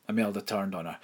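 plain reading voice

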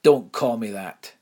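loud angry growl; a loud growl warning her off. Acted. Imelda turns on the headmistress, loud angry growl. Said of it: "she growled".

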